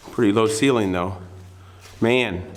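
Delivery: echoey, boxed-in sound; talking inside a narrow tunnel; through a tube. Real, not acted. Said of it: "Sounds like I'm in a tube".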